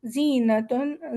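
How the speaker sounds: زینتن very slowly, the ز hissed like a whistle; slow whistling زینتن; whistling z sound. Shown as a demonstration. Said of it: "سیٹی والی ہے".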